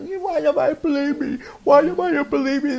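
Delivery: put-on high, pleading British-accented cry of why nobody believes him; imitating himself as a boy begging in British tones; mock British crying plea. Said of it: "I was speaking British".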